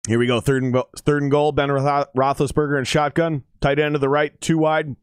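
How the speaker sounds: mild mock-announcer shout. Real, not acted. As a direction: call the play like a fan announcer. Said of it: "Gotta get my shouting voice ready".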